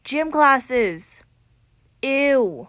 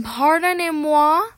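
French accent; 4 semitones higher, 5 dB louder than usual. Shown as a demonstration. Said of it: "Yes, I speak French".

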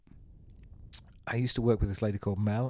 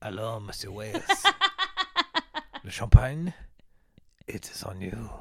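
put-on French prostitute accent; 2 semitones lower than usual. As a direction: play a hammed-up French courtesan accent. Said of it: "A French prostitute accent".

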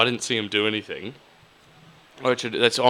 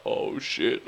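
whispered dread. Retold or imitated. Hand lands on his shoulder.

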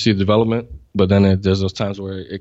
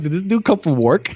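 quoting his first thought through a laugh; a mock surprised question, laughing; laughing disbelief; 6 semitones higher than usual. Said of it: "I was like".

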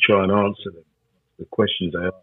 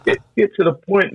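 laughing; 9 semitones higher than usual. Real, not acted. Laughing, mocking the soft church.

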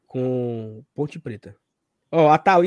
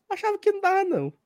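high mock reply; faster than usual. Quoting friend, high.

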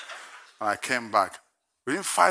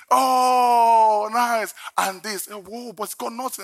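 high mock delight turning to disgust; lightly voiced wife, high then fading; imitating wife; 10 semitones higher, 4 dB louder, slower than usual. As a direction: play the wife spotting the nuts. Wife reacting to chocolates.

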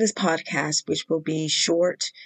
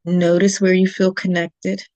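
measured meditation guide, long pauses between phrases; calm instructions with room to breathe; guided meditation. Real, not acted. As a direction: guide listeners unhurriedly into stillness.

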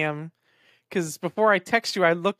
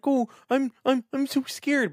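higher, slow whiny scared pup; mock crying dog; 7 semitones higher, slower than usual. Voicing the dog scared of barking neighbors, high whine. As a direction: whine it like a frightened puppy. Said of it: "like, cry and like".

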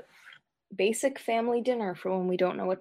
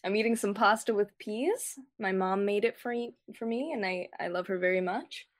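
chewing while talking; 2 semitones higher than usual. Real, not acted. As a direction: mouth full of pasta. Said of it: "Can you hear me eating it?".

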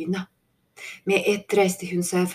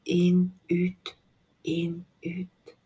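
breathed whisper; much slower than usual. A narrator's reading. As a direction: whisper it as sleep takes over. Falling asleep breathing.

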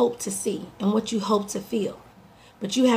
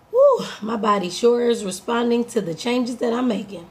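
upbeat reframe. Retold or imitated. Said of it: "An alternative thought".

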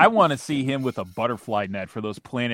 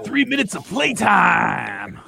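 announcer voice; 7 semitones higher, 5 dB louder, slower than usual. Acted. Announcer-style joke line.

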